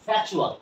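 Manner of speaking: ফ্যাকচুয়াল said as "fa-chu-al", k barely heard; corrected pronunciation. Shown as a demonstration. Teacher corrects viewers' lifelong mistake, careful modelled pronunciation. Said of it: "আমরা কি বলবো?".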